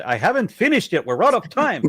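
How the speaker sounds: put-on light Jewish accent, laughing; imitating Tomer with a Jewish accent. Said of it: "Yes, do the Jewish accent".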